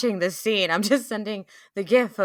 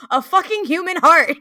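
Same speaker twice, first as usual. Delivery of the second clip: high, loud disbelieving shout; all caps yell; 9 semitones higher, 9 dB louder than usual. Retold or imitated. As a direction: blurt it out in shock. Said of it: "And then, and then".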